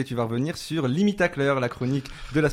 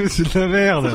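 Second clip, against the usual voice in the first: angry; 4 semitones higher, 4 dB louder than usual. Acted. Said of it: "d'abord la colère".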